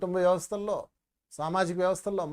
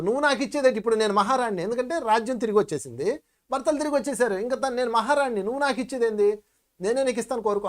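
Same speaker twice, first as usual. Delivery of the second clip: proud queen refusing; 3 semitones higher, faster than usual. Acted. Draupadi telling the giver she is queen now, proud and insistent. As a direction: toss the offer back like a queen who needs nothing.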